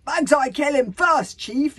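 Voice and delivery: high, loud, eager shout; rowdy warrior's shout; yell. A narrator's reading. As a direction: yell to get in first. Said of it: "yelled Beggar Ben the Beer Belly".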